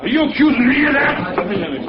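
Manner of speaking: the captain shouts back at the investigator; indignant. Acted. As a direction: challenge him, offended. Captain confronted with sabotage accusation.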